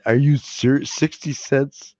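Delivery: slow, stretched disbelief; incredulous. Real, not acted. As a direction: drag it out in disbelief. Incredulous at small price.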